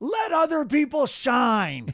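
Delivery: play-acted, stirring, high, swooping, drawn-out yell. Retelling what a soccer teammate screamed out of nowhere: imitating someone screaming. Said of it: "he screams".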